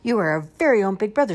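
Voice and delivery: high, quick, loud little squeak; squeaky baby crocodile. A narrator's reading. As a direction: squeak it fast like a tiny crocodile. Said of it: "squeaks one baby crocodile".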